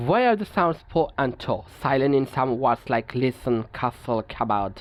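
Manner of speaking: each English word read out slowly and evenly; measured, deliberate reading of a textbook rule. Acted. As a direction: dictate the rule slowly to the class.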